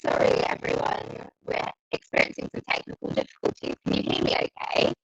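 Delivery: robotic, glitchy connection voice; garbled robot sound over bad internet; Dalek voice. Real, not acted. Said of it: "you sound like a Dalek".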